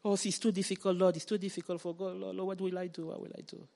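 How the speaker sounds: hammed-up whimper fading to a whisper; a fake plea to God that fades away; mock whining. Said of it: "we go with crocodile tears to God".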